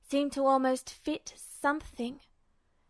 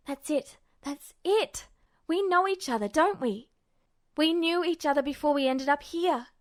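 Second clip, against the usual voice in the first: excited discovery. Acted. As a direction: burst with excitement as it clicks. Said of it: "almost shaking in excitement".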